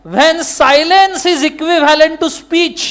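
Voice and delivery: very slow, word by word legal rule; slow dictation. Shown as a demonstration. Teacher dictating the law to students, very slow. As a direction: dictate it slowly for notes. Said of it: "dictating heading".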